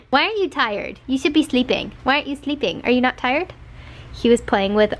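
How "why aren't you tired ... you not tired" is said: higher doting questions; pet-talk. Real, not acted. Owner asking her dog why he isn't sleeping, doting pet-talk.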